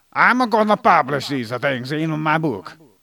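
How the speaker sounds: loud, over-the-top, put-on Italian accent. Retelling what a professor said, in a put-on Italian accent. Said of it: "That's a nice accent".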